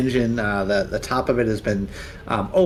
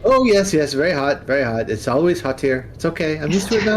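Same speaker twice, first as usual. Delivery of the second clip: high, chatty skull brushing off the heat; light squeaky skull making small talk; flaming skull voice; 5 semitones higher than usual. Acted.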